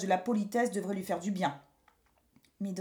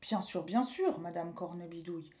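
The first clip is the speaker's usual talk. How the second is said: mischievous; 5 semitones lower, 6 dB quieter than usual. A narrator's reading. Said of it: "répondit Pierre malicieusement".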